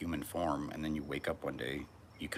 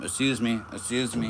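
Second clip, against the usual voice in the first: mock polite voice; 6 semitones higher, 8 dB louder than usual. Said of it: "Sound like some Valley Girl bitch".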